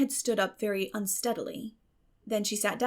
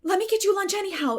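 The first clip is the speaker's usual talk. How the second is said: higher, quick pleading; imploring; 11 semitones higher, 7 dB louder, faster than usual. A narrator's reading. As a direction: beg her to stay. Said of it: "implored Anne".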